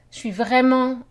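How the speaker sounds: "vraiment" given extra emphasis; stress on vraiment. Shown as a demonstration. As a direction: lean on "vraiment". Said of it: "put some emphasis".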